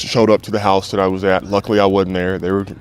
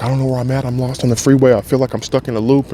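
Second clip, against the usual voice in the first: higher-pitched, mildly anxious retelling; 4 semitones higher than usual. Retold or imitated. Calling therapist while lost on the freeway, mildly anxious. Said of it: "I had so much anxiety".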